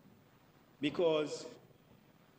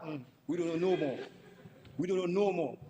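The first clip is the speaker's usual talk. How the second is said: ordinary talk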